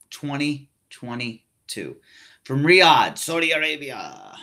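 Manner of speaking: mild put-on event announcer read; announcer-ish voice. Podcaster announcing Crown Jewel in a mild announcer voice. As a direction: lightly hype the show like a promo. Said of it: "I don't know why I'm talking like this".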